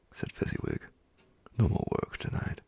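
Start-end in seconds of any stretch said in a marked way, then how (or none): 1.6-2.6 higher cheerful call; jovial call. Acted. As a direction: call the lads off work merrily. Fezziwig calls to apprentices.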